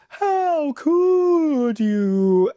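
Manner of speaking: high, hugely drawn-out theatrical wail; Rarity's melodramatic outcry. Retold or imitated. Fan imitating Rarity accusing Twilight, high drawn-out melodrama. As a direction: stretch every word in mock outrage, pitched high. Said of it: "with that great delivery".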